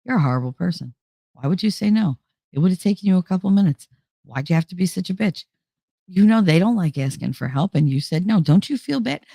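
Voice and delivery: self-scolding inner voice. Retold or imitated. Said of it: "just being like".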